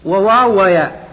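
letter by letter, slowly; slow spelling out. Shown as a demonstration. Teacher spelling letters for students, slow. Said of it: "هي واو واحدة فقط".

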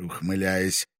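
ordinary delivery, nothing marked

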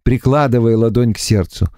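ordinary delivery, nothing marked

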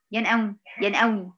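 "ينأوني" rushed, the nun swallowed; hurried faulty "ينأوني"; shortened nun error. Shown as a demonstration. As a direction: clip the nun in "ينأوني" quickly. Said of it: "فين ينأوني دي؟".

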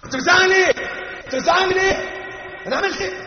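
high, loud imitated wife's protest; imitating a wife yelling back at her husband; mock shrill yelling. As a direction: shout back at husband, mimicking. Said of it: "لما زوجها يعلي صوته يزعق".

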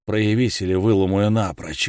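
гаркнул. Acted. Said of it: "гаркнул я".

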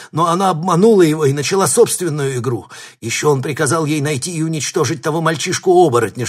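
high, loud terrified confession, easing a little; panicked shouting. A narrator's reading. Captive confessing to the mistress, panicked shouting. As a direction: blurt it all out fast in terror.

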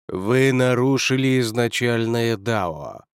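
slow, otherworldly voice; eldritch horror. Acted. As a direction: speak like a being from beyond. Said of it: "потусторонним голосом".

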